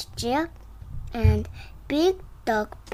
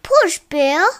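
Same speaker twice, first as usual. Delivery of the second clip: urging; 4 semitones higher, 9 dB louder than usual. Acted. Urging in story.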